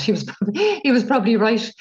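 chuckling through the words; amused, laughing it out. Real, not acted. Joke that the Irish are mad.

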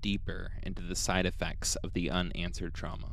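calm, even storytelling read; podcast storyteller reading the case; story narration. A narrator's reading. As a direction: narrate the eerie account steadily.

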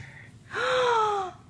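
high, sharp gasp of delight; a sudden high gasp. Real, not acted. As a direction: gasp at a lovely surprise. Sees bunny gift.

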